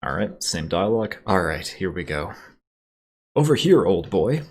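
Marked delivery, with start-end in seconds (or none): 3.3-4.4 put-on high, loud old English gent calling out; shrill, plummy "old boy" call; shrill older man. A narrator's reading. Older supply officer hailing the pilot, shrill. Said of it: "shrills a short, gaunt-looking older man".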